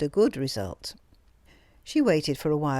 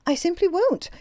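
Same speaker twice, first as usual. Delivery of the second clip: a higher, fiercer refusal with the stress on won't; fierce defiance; 13 semitones higher, 4 dB louder than usual. A narrator's reading. Greta refusing her employer outright, with timid ferocity. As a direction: throw out "I simply won't" with a hard stress on "won't". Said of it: "all the ferocity of a mad sheep".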